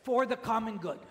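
measured closing prompt, falling at the end; evenly spaced phrase for others to echo; repeat-after-me prompt. Shown as a demonstration. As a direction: lead the group in reciting. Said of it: "Please repeat after me".

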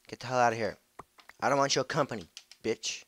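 loud snarl at the mob; loud angry yell at a monster. Real, not acted. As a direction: shout it to drive them off. Yelling at mobs.

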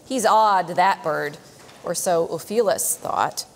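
measured, rhythmic verse reading; poem reading. Acted. Teacher reading a rhyming poem to children, measured and rhythmic. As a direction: read the stanza aloud to the class.

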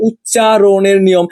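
উচ্চারণের নিয়ম spelled out very slowly, word by word; slow emphatic repeat. Shown as a demonstration. Tutor stressing the exam topic to students, very slow and deliberate.

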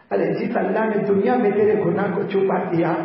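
loud, sustained preaching chant; ringing, emotional sermon climax; impassioned forgiveness. Acted. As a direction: proclaim mercy at full voice. God grants forgiveness, preached at climax.

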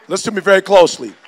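full-voiced call to attention; firm and loud. Shown as a demonstration. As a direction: reset and command the room. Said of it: "Okay, I'm sorry. All right".

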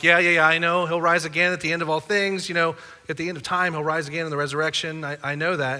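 mildly impatient yeah-I-know recital; quick, brushing-off mock agreement; dismissive agreement. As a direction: rattle it off like a rote Sunday school answer. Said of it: "gives him that old, like, Sunday school nod".

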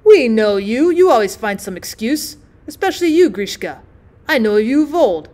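lauter, vorwurfsvoller Ruf; imagined doctor shouting. Pretend. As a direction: donnere den Vorwurf heraus. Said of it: "will frown and shout".

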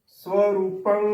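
ਸੋ ਰੂਪੰ with "so", not "sav"; ਸੋ ਰੂਪੰ with a rounded first syllable; correct pronunciation demo. Shown as a demonstration. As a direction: say ਸੋ ਰੂਪੰ as "so-roopang". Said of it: "ਉਚਾਰਨ ਕਰਨਾ ਹੈ".

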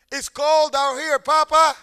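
put-on high, slow, pleading little boy; shivering child. A father voicing his freezing little son. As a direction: whimper it like a freezing kid.

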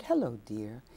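soft, gentle hello; imitating a tender soft greeting; softest voice. Albee greeting the actress backstage, softly. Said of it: "in the softest voice".

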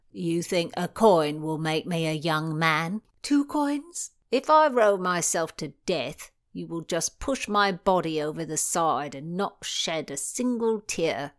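put-on grumbling old boatman voice; grumpy oarsman. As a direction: sour complaining rower.

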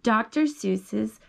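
slow, drawn-out title read; reading to a child. Acted. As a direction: announce the title slowly to a toddler.

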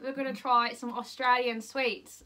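lightly attempted Aussie accent; amateur Australian accent. Host introducing the sweets, playful Australian accent. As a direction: give Australian vowels your best shot. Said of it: "I'm no Jodie Comer when it comes to accents".

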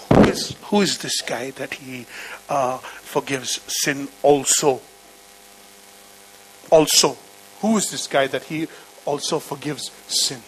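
low, hushed muttering among the guests; whispered gossip. Retold or imitated. Men at the table whispering suspiciously, hushed and low. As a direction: murmur it behind your hand. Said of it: "they whispered to one another".

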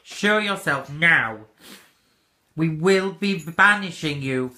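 slow, firm challenge. Real, not acted. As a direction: demand it show itself slowly. Challenging the spirit.

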